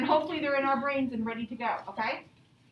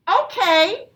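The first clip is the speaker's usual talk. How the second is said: parents giving in; 5 semitones higher, 12 dB louder than usual. Acted. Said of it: "they said".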